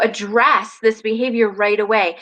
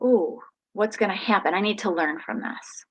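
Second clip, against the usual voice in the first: put-on child's thoughts; 6 dB quieter than usual. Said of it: "my kiddo was able to process".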